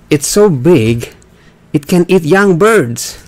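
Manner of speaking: slow down after being told off; deliberately slow reading, word by word. Real, not acted. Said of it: "Don't talk too fast".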